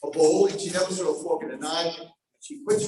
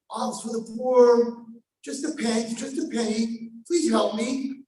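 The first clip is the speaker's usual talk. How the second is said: slow, higher pleading beggar voice; 5 semitones higher, slower than usual. Acted. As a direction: beg pitifully for a penny. Beggar girl pleading from mud.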